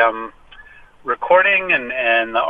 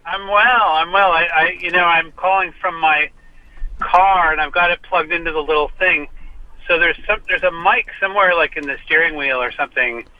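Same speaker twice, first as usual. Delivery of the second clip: clipped phone line; 3 semitones higher than usual. Real, not acted. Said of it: "You do sound like you're, you're calling from a car".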